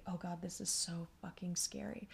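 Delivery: put-on frightened inner child whispering; scared whisper. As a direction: hush it like a scared little girl. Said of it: "She was just like".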